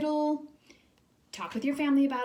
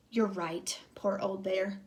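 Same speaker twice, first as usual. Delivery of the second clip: mock sigh; 3 semitones lower than usual. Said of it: "sighed Hare".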